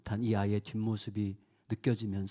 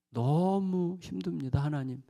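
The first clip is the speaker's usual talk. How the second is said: weary plea; 4 semitones higher, slower than usual. Retold or imitated. Prayer, exhausted confession.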